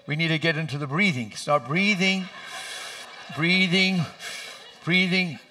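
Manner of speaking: steady her through the contractions; coaching the breathing. Retold or imitated. Husband coaching screaming wife, mock-coaxing breathing. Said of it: "She's screaming and all this stuff".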